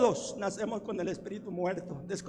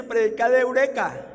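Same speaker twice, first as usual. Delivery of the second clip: quoting wife; 7 dB louder than usual. Retold or imitated. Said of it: "Ella siempre me dice".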